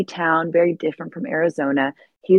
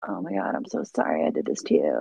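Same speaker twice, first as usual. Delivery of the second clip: mock tortured; 13 semitones lower, 6 dB quieter, faster than usual. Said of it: "Edward's all tortured".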